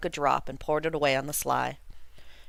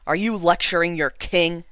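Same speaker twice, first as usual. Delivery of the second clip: louder, indignant king; a proud king bristling at his son; a mild hint of an indignant old king; angrily; 6 dB louder than usual. A narrator's reading. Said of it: "he answered angrily".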